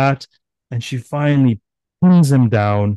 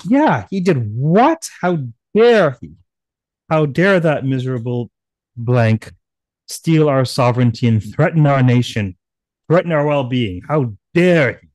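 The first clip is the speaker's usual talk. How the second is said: loud, higher, indignant cry; rally everyone in righteous fury; outraged gods; 3 semitones higher, 3 dB louder than usual. Acted. Gods echoing Shiva against the buffalo demon, loud indignation. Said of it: "all of the gods were outraged".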